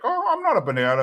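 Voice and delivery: high, mock-indignant denial; defensive Khan. Khan denying to Ted and Fong, high mock indignation. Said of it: "And he's like".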